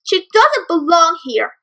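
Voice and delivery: slow sneering jab; mocking. Bully sneering at the filly, a slow mocking jab. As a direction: drawl it out to hurt. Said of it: "Dancer said with the same voice".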